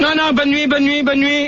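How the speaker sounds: high-pitched, insistent repeated goodnight; irritated dismissal. Real, not acted. Host cutting off a protesting caller, irritated dismissal.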